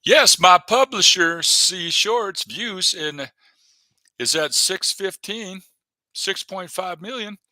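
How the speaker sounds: loud, slow boast of his numbers; proud announcement. Real, not acted. Streamer bragging to viewers about his publisher's views, loud and slow. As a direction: proclaim it like big news. Reading channel stats aloud proudly.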